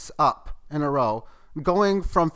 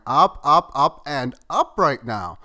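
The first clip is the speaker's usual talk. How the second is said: excited; 8 dB louder than usual. Real, not acted. Excited price rising.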